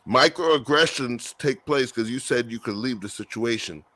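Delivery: talking while chewing; words round a bite of food; mouth full. Real, not acted. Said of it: "Excuse me, I'm chewing".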